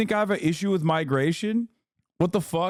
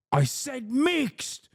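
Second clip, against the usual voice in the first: very high, drawn-out British whine; mock British accent; much slower than usual. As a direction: squeal it as a hammed-up British caricature. Mocking offended chatter's British accent.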